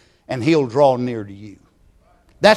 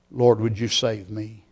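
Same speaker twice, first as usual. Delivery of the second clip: soft, understated cry to the Lord; subdued plea to God; 3 semitones lower, 6 dB quieter than usual. Acted. Preacher voicing a sinner asking to be saved, quietly pleading. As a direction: voice a hushed prayer for someone else. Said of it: "you'll be crying out".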